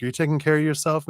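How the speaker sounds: fast, high, fussing New York grandma; New York grandmother accent. Retold or imitated. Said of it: "that kind of accent".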